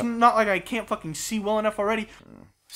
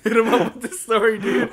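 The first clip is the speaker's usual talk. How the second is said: louder, laughing as he talks; 4 semitones higher, 5 dB louder than usual. Real, not acted. Host laughingly urges cohost to tell his story. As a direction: push him on through your laughter.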